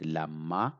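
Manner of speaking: Lama with a long, doubled m; strong sound. Shown as a demonstration. Teacher contrasting two sounds for learners, strong doubled m. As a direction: lean on the m in Lama and stay on it. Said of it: "Ma is now not Lama".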